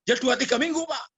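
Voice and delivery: high-pitched plaintive reply; imitated tearful answer. Girl answering the pastor in shame, imitated tearful voice. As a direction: confess shame in a lifted voice. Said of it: "nangis-nangis".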